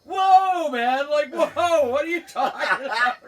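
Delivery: loud, high mock bewilderment; big startled whoa, voice shooting up; Larry taken aback. Storyteller voicing the prank victim on the phone, baffled. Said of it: "And Larry's like".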